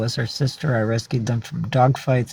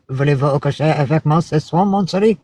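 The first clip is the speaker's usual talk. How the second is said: lightly voiced French suitor, lilting up at the end; a hint of a flirty Frenchman; French guy propositioning. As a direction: come on to her in French, pitch climbing. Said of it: "Some French guy would be like".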